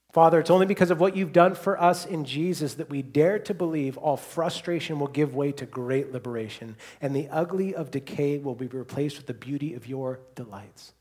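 fervent prayer. Real, not acted. Pastor daring to believe before the Father, fervent. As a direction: address God with a surge of conviction.

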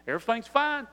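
doctor happily announcing the patient is healed; relieved excited doctor. Retold or imitated. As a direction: deliver the healing news with real excitement. Doctor says you're healed.

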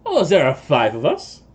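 put-on light French-accented halfling; a halfling answering Jean-Claude in a light French accent. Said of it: "like your accent".

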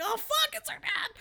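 high-pitched mock gasp of discovery; shocked realization. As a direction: blurt it high, as if it just hit you. Acting out her sudden realization.

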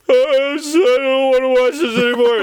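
high, fast mock whine; high whiny quote of his younger self; bored younger self. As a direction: whine that you want to stop watching. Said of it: "I was like".

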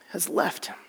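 soft, nearly voiceless ending; preacher fading on God has left him; breathy hush. Real, not acted. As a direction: let it fade to breath. Trailing to a breath.

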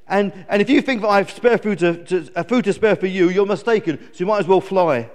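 whingeing storybook eagle; complaining. Acted. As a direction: moan indignantly at the visitor. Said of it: "complained Glen".

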